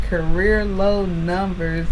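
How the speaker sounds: slow, drawn-out echo of a harsh phrase; slowly savoured quote; mock repeating. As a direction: stretch out each word, quoting it back. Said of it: "He ain't have to say it like that".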